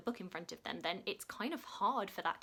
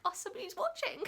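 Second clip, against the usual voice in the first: much higher, happy surprise; light up at a new comment; pleasantly surprised, much higher; delighted surprise; 13 semitones higher than usual. Retold or imitated. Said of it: "you're like".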